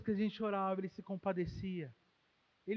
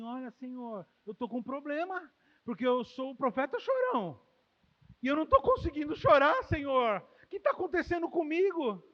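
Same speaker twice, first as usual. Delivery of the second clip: rising, louder plea to the Lord; Jeremiah's lament; 3 semitones higher, 5 dB louder than usual. Pretend. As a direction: cry out the prophet's complaint. Voicing Jeremiah's lament to God. (lamento alto e suplicante de Jeremias)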